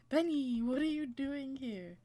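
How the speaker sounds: slow, drawn-out scolding of a dog; playfully aghast, taking it slowly; exasperated surprise. Pretend. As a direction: stretch out the name in dismay. Scolding the dog that followed her.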